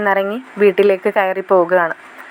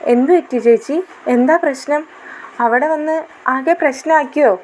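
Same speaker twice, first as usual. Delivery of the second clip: put-on lightly childish girl; 5 semitones higher than usual. Younger sister asking again.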